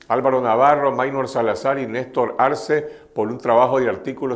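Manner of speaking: steady, scripted news-anchor delivery; news read. Acted. Host introduces journalism prize winners to viewers, news read.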